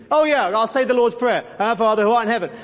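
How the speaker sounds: mock offhand, rote prayer; imitating careless, automatic recitation; meaningless recital. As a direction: rattle it off without meaning it. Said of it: "Meaninglessly. Just".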